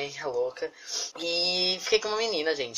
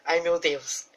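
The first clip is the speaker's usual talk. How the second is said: dreamy hopeful; 3 semitones higher, 3 dB louder than usual. Retold or imitated. Quotes her hopeful fantasy.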